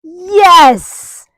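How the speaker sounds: high, loud burst of praise for the dog; excited praise. Real, not acted. Trainer cheering her dog for stepping up, high and loud.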